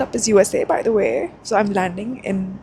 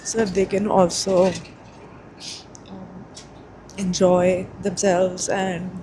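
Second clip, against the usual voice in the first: choked up; slower than usual. Real, not acted. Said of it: "oh my God, I'm getting so emotional".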